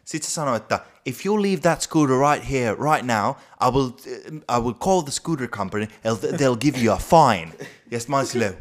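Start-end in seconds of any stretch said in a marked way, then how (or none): 1.0-7.5 shrill posh English. Retold or imitated. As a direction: imitate a posh Englishman laying down the law. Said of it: "puhuu silleen tosi semmoisella kimeellä englannilla".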